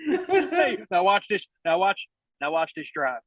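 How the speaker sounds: laughing Bush imitation. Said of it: "the golf thing!".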